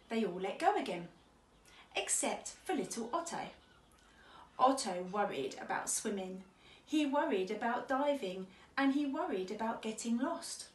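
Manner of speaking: measured picture-book reading; children's story narration. Acted. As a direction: read gently paced to young children. Reads a children's story aloud.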